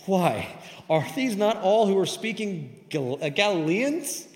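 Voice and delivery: loud, high-pitched incredulous question; astonished. Acted. Onlookers questioning who these speakers are, astonished. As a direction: read it as a stunned crowd. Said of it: "they are astonished, saying".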